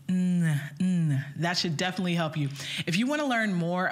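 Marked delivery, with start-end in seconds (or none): 0.1-1.2 nasal hum. Shown as a demonstration. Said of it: "allow air through the nose".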